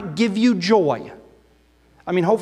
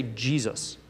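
hushed reverent name; 9 semitones lower, 10 dB quieter than usual. Real, not acted. Name spoken reverently after pause.

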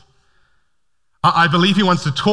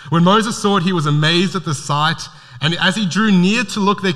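amused reread; 2 semitones higher than usual. Real, not acted. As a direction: chuckle through it as you repeat it.

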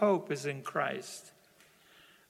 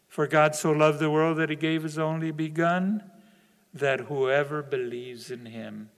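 gentle re-reading; 2 semitones lower than usual. Acted. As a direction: say it again tenderly, letting it sink in. Repeating the verse more gently.

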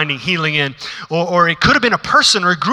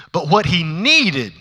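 hushed whisper in the sermon; breathy hush; much slower than usual. Acted. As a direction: drop to a whisper to draw them in. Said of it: "sermon hushes for the point".

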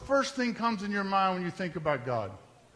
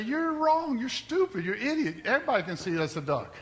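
mock scornful retort; 4 semitones higher than usual. Mocking someone who sees only duck.

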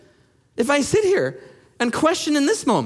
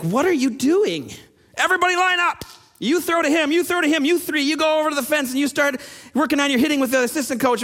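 put-on coach organizing kids; 3 semitones higher than usual. Youth coach lining up players, directing them. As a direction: bark out drills to a field of small kids. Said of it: "he's like".

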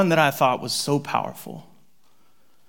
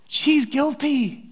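slow grave; 8 semitones higher, much slower than usual. Real, not acted. Slow drawn.

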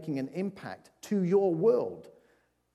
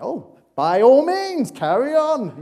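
high, slow, loud sarcastic "by all means"; 9 semitones higher, 8 dB louder, slower than usual. Retold or imitated. Holding a door for someone who ignores you, loud slow sarcasm. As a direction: drip sarcasm at the rude door-walker. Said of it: "and you're like".

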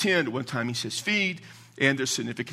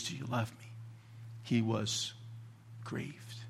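hushed, grave retelling; 3 semitones lower, 12 dB quieter, slower than usual. Retold or imitated. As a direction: voice dropped very soft with heavy pauses. Retells the question that grieved Peter.

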